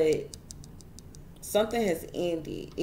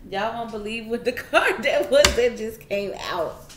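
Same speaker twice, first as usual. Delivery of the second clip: laughing disbelief; 4 semitones higher, 5 dB louder than usual. Real, not acted. Laughing at surprising card.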